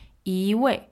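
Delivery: 一 rising into a falling 位. Shown as a demonstration. Teacher repeats 一位 for learners, 一 rising. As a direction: lift 一 as a second tone before 位. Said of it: "it turns into a rising tone".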